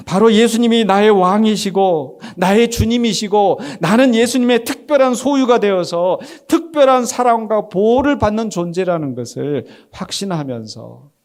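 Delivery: loud, high, slow proclamation; fervent preaching. Real, not acted. Preacher declaring who Jesus is to believers, fervent. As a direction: declare it with rising conviction, stretched out.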